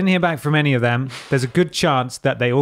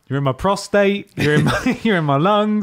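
higher, lightly mocking the sappy message; mocking Simon; 6 semitones higher, 3 dB louder than usual. Host parodies the guest's sentimental message, mock gushing. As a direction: parody his gushing sign-off. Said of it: "mocking Simon's sappy message".

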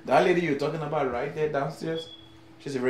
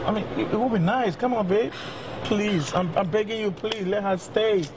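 pleading husband; 5 semitones higher than usual. Acted.

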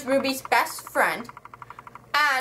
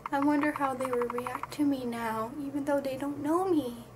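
soft, wistful imitation; mock wistful musing; 7 dB quieter than usual. Ruby looking at her parents' window, mock wistful musing. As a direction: muse it quietly, as if to oneself.

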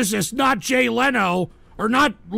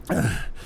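low, soft sigh; weary sigh; 12 semitones lower, 6 dB quieter than usual. Real, not acted. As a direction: let out a spent sigh after yelling. Exhausted after outburst.

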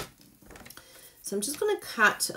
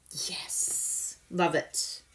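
soft breathy yes to herself; a secret little whisper of delight; 4 dB quieter, much slower than usual. Real, not acted. Crafter pleased with her card, whispering to herself. Quiet aside.

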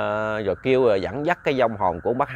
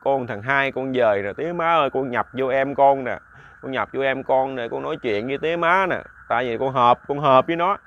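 tearful plea. Acted. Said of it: "ông khóc. ông nói".

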